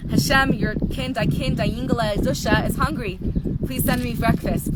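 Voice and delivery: storyteller's hint of a pleading chassid; acted prayer. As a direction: call out a mock-earnest request to Heaven. Acts out Zusha's morning prayer.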